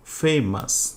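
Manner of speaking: ফেমাস split slowly into two beats; broken into syllables. Shown as a demonstration. Teacher counting syllables for students, ফেমাস broken into two slow beats. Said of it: "দুইবারে".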